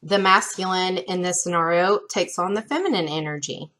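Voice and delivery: talking through hiccups; hiccuping. Real, not acted. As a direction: hiccups breaking the words. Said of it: "Sorry, I keep hiccuping".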